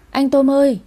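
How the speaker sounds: overjoyed. A narrator's reading. Little Bin waking to see Tôm, overjoyed. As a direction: call out to big brother in delight. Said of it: "nó mừng rỡ".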